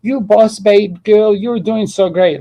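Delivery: gushing fake cheerleader; mock girlboss cheer. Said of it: "it's not confidence as in".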